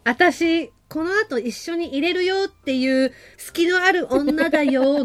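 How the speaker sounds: 少し高めにゆっくり思わせぶり; 隙のある女を軽く演じる; 隙のある女の演技. Acted. (隙を見せる女の声色)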